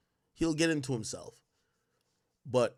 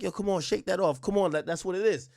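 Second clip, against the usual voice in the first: 1 tough dad; 6 semitones higher than usual. Retold or imitated. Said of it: "Dad's supposed to be like".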